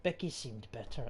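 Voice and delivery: put-on reads the diary in a light Irish accent; a grieving husband's diary, Irish lilt. Streamer reading a plague diary aloud, light Irish accent. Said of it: "I'm just doing Irish".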